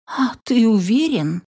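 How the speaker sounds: high, anxious asking; worried question. A narrator's reading. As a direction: ask with rising unease. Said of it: "обеспокоенно спросила Софи".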